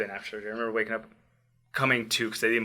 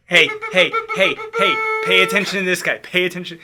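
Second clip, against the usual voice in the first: loud, high mock machine voice calling for attention; beeping monitor alarm; 6 semitones higher, 8 dB louder than usual. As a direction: voice the alarm, higher and much louder.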